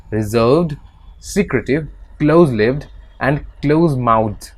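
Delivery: slow, careful text reading; measured classroom reading; reading aloud. Acted. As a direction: read it out slowly like a passage. Reads English text aloud.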